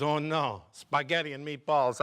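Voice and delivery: put-on mildly dismayed Italian accent; restrained Italian-accented dismay; Italian worker, mild dismay. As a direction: grumble in an Italian accent without raising the voice. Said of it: "Italian opens his lunchbox".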